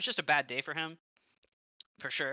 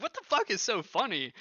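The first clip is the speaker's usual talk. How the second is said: mock angry repeat; 8 semitones higher than usual. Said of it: "He's like".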